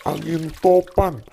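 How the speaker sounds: put-on gentle storytelling voice for a child; bedtime story narration. Father tells Bible story at bedtime.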